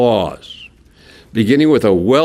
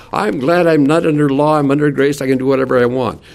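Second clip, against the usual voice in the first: mock-glad careless believer, a bit higher and faster at the end; smug mock quote; 3 semitones higher than usual. Preacher mimicking careless churchgoers, lightly smug. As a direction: toss it off like someone who thinks grace lets them do anything. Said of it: "I hear people say".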